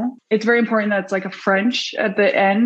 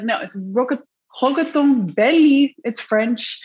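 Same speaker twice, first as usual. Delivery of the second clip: mock French name; 3 semitones higher than usual. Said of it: "And I was like".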